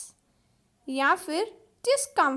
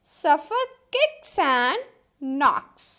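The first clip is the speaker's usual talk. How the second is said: slow dictation; much slower than usual. Shown as a demonstration.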